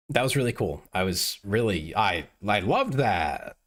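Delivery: drawn-out mock enthusiasm; slow, fake delight, clearly sarcastic. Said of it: "That's, that's sarcasm".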